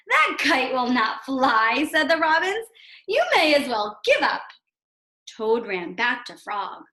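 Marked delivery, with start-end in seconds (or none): 0.1-1.8 slow, louder taunting bird voice; a teasing robin chorus; mocking robins. Robins mock Toad in story. 3.1-4.4 a teasing robin chorus; mocking robins. Robins mock Toad in story.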